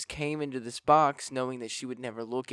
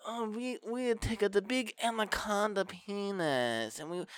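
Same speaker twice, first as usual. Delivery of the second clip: hammed-up old-timer; 6 semitones higher, 4 dB quieter than usual.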